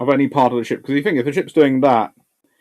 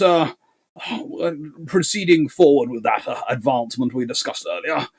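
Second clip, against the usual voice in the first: posh English; 5 semitones higher than usual. Pretend. Talking posh over the radio to confuse the other side, mock posh English. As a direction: put on a mock upper-class English voice. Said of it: "you can get really posh".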